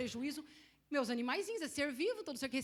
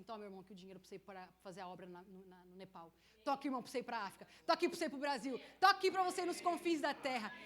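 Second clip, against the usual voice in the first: imitated givers building to a shout; 4 semitones lower, faster than usual. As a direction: hand over the money, rising to a cry. Giving people imitated, building up.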